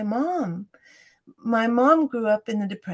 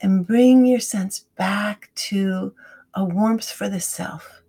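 guided meditation. Shown as a demonstration. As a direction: guide the listener gently into the breath, fading to a whisper. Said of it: "Why don't you teach me?".

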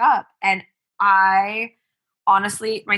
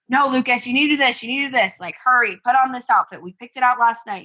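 higher-pitched, hurried nagging; mock yelling; 3 semitones higher than usual. Mom rushing her son to get dressed, mock yell. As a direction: imitate a parent yelling orders, only mildly raised. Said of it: "normally I'm yelling at him".

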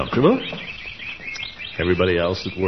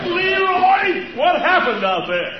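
calling out; slower than usual. Acted. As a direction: shout out to the yard. Calling from the house.

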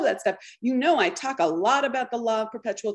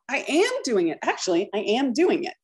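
"am" lifted above the other words; emphasis on "am" each time; stress on am. Shown as a demonstration. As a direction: affirm it by leaning on "am". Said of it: "Put a little emphasis on the am".

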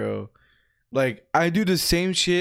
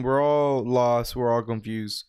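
slow, low sermon tone; low, slow heartfelt sermon; preachy hush; 6 semitones lower than usual. Real, not acted. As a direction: sink into a solemn preacher voice. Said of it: "you're sounding like a preach now".

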